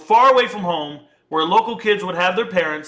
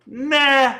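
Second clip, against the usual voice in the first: higher-pitched, drawn-out nah; retold defiant refusal; 6 semitones higher than usual. Thinking back to a threat against the twin brother, defiant refusal. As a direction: push back with a raised, stretched nah.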